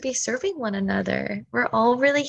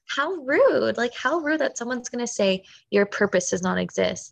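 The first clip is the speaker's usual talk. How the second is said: mock outrage; 3 semitones higher than usual. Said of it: "my whole body got so mad and angry".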